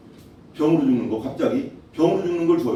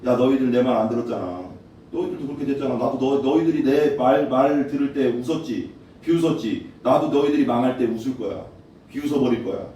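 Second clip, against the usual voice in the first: low, scornful taunt; mocking God voice; 4 semitones lower than usual. God mocking the disobedient as they fall, low scornful taunt. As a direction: sneer at those who would not listen. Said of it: "하나님께서 웃으신대".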